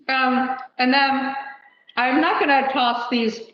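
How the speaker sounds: talking with a mouthful of food; chewing while talking; mouth full. Real, not acted. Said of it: "talking with my mouth full".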